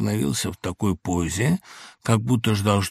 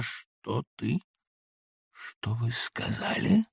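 stunned hush; 7 dB quieter, much slower than usual. A narrator's reading. Samoylenko stunned, restraining himself.

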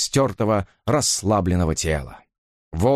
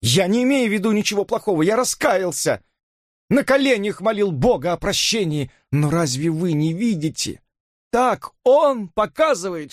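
frantic pleading; 10 semitones higher than usual. A narrator's reading. Robert's frantic love plea.

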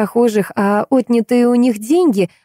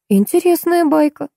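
drawled; 9 semitones higher than usual. A narrator's reading. Visitor responds to the guide's tale, drawled. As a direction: stretch it out with a raised voice. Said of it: "протянула я".

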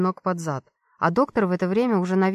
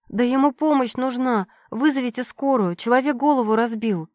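urgent pleading; 4 semitones higher than usual. Acted. Begging guards for a doctor.

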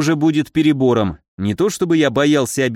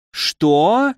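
indignant, drawn-out rising question; outraged "what?", voice pitched up; возмущённо; 5 semitones higher than usual. A narrator's reading. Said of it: "в унисон возмутились девушки". (возмущённый вопрос)

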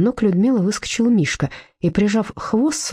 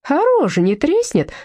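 spiteful sneer; 9 semitones higher than usual. Acted. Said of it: "злобно сощурил глазки Курищев".

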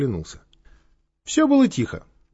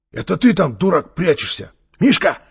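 higher, louder irritated call; 5 semitones higher, 5 dB louder than usual. A narrator's reading. Gang leader to whoever hides in the bushes, calling out.

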